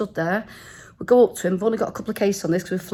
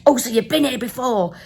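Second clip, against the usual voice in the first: lightly put-on American accent; mock American accent; 3 dB louder than usual. Taxi driver questioning tourists, mock American accent. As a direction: imitate a cabbie with an American twang. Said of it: "I'm doing this in, like, an American accent".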